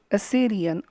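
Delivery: "Assyrian" with SYRIAN stressed; stress on base word. Shown as a demonstration. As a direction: lean on the "Syr" in "Assyrian". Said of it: "first syllable of a base word is to be stressed".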